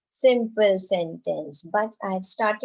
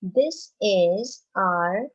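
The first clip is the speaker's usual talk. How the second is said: put-on slow, spaced model reading for children; teacher modelling a sentence to repeat; slow read-aloud; much slower than usual. Shown as a demonstration. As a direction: read each word out slowly for the class to follow. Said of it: "the first one is".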